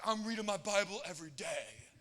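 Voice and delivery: loud, laughing, thrilled exclamation; excited shout. Retold or imitated. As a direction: burst out with joy. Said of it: "He's like".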